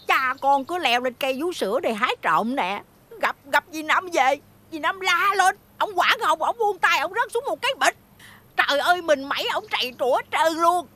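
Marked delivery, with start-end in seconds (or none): 3.2-10.9 excited retelling. Retold or imitated. Aunt eagerly telling niece about father's fall, excited. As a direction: tell it breathlessly, caught up in it.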